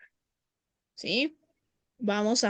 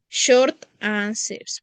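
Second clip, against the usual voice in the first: slow term; much slower than usual. Shown as a demonstration. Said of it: "teacher names term".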